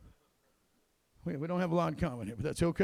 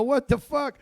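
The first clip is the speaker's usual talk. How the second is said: mock shocked yell; 6 semitones higher, 6 dB louder, slower than usual. Recruiter shocked at weight gain.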